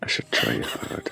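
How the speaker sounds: clumsy put-on Scottish accent; poor imitation Scottish brogue; attempted Scottish accent. Shown as a demonstration. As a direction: soldier on in bad fake Scottish. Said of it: "you sound like the fucking bat".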